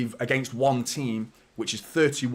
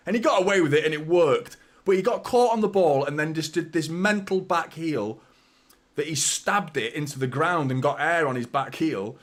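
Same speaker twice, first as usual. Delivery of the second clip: higher, louder, laughing at it; giddy higher louder retelling with a laugh; excited disbelief; 4 semitones higher, 4 dB louder than usual. Real, not acted. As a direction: laugh in amazement as you retell it. Disbelief at Ederson's back heel.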